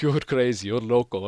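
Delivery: light mock Spanish accent; imitated Spanish accent. Suspected thief denying it to his accuser, imitated Spanish accent. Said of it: "obviously Spanish accent and stuff".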